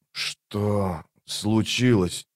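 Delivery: slow, soft croaking; weak wounded hoarse rasp. A narrator's reading. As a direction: croak it out, barely able to speak. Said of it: "прохрипел он".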